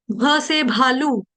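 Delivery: slow भ thrown out in भालू; drawn-out, breath-pushed भ in भालू; forced aspirate भ. Shown as a demonstration. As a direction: push a puff of air through भालू. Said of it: "अक्षर बाहर को फेंकना है".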